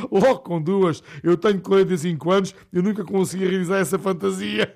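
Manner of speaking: eager father. Acted. Father to his son, excited and loud. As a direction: gush about it with envy. Father enthusing about two.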